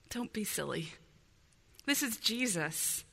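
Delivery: acted scolding, starting low and soft, then rising; understated indignant reproof from the crowd; rebuking. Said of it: "begins to rebuke them".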